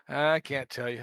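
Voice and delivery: hissing reptile voice; lizard voice. Pretend. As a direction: hiss it like a lizard. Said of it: "Puts in lizard voice".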